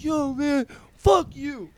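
mock a drunk friend picking a fight; imitating belligerent drunk. Drunk friend cusses out his buddy, mock belligerence. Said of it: "Zach is belligerent drunk".

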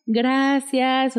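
retold overjoyed mother. Mother told her son will be a father, mildly acted joy. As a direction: imitate a delighted mother hearing baby news. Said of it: "se puso súper feliz".

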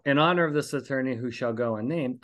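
ordinary delivery

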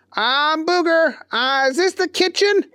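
high, eager goofy voice; keen simple fellow; high dopey voice; Booger voice. A narrator's reading. Booger asks.

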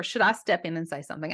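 "Should I step in and say something?" rattled off quickly; fast reread. Shown as a demonstration. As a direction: hurry through the repeated question. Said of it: "I guess I did go ahead and read that".

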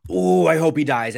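playfully vengeful, acting out a viewer's reaction; relishing ill wish. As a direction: blurt it with mock venom. Acts out own reaction to villain.

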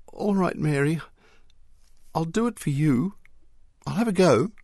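put-on a brave boy stepping up for the girl he admires; chivalrous. A narrator's reading. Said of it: "Arthur said chivalrously".

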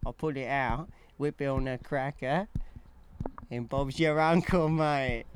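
put-on working-class English accent; British accent. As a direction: tell it as a cheeky British lad. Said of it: "I feel like a British accent".

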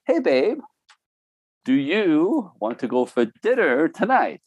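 a high sweet hey babe, then a slow easy question; lightly voiced sweet wife; imitating wife's sweet question. Wife inviting husband to dinner, a sweet high ask. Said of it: "It says".

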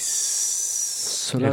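slow, breathy dramatic drawl; grand tragic wailing. Acted. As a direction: stretch the title out like a lament. Echoing the title dramatically.

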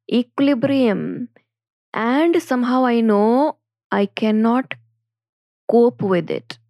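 slow, carefully stretched words; over enunciating. Shown as a demonstration. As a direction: spell out each word slowly for students. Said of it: "Let me repeat it again slowly for all of you".

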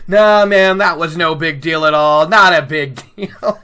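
loud swaggering mock brush-off; hammed-up tough-guy nonchalance; mock bluster. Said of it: "Oh, I love the bluster".

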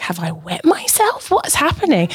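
mock panic. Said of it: "I was starting to panic".

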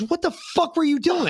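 high, incredulous dad voice; mock angry dad. Dad on the phone hearing son got arrested, high and incredulous. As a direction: play the shocked father.

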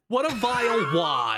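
laughing through it, disgusted; laughing correction. Real, not acted. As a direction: relish the word wad with a laugh. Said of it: "sandwich is the wrong word".

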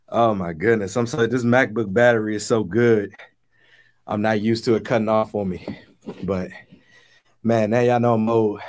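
winded after rushing to plug in; breathless, catching your breath. Real, not acted. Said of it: "I gotta catch my breath".

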